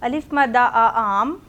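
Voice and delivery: slow, sing-song spelling chant; teacher drilling the class. Shown as a demonstration. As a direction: chant it slowly for children to repeat. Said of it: "five times read करना है".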